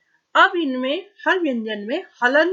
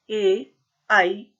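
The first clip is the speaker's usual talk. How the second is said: slow recitation; 2 semitones lower, much slower than usual. Shown as a demonstration. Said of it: "reciting the vowels".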